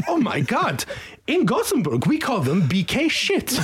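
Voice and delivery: high, laughing, mocking the team; laughing mockery. The Swedish guy at the bus stop mocks the fans, laughing high. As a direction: laugh as you rub it in. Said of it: "And he was like".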